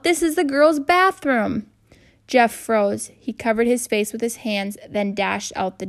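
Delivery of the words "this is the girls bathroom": slow, high, indignant yell; still yelling. Acted. Girl tells the boy where he is, indignant yell. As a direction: hammer each word home, outraged. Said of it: "she yelled".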